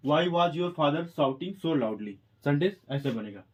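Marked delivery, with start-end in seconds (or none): 0.1-2.1 drawn out word by word; slow dictation. Shown as a demonstration. Teacher dictating to students, very slow. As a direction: give each word its own beat. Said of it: "English बनेगा इसका".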